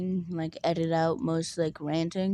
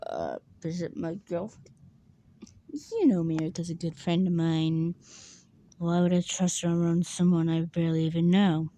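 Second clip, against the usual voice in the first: dead serious. Retold or imitated. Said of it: "a dead serious voice".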